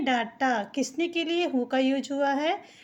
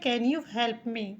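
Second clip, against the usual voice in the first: slow, careful teacher reading; drawn-out demo phrase; slow model sentence; 3 semitones lower, 3 dB quieter, much slower than usual. Shown as a demonstration. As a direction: say it slowly so students follow. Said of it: "क्या आप मेरी मदद कर सकते हैं".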